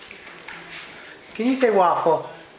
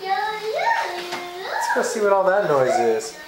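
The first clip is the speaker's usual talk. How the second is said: playful curious; 2 semitones higher than usual. Acted. Curious voice to toddler.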